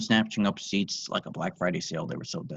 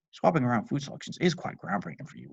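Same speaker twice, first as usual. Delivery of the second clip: sarcastic; 5 semitones higher than usual. Acted. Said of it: "Lisa said sarcastically".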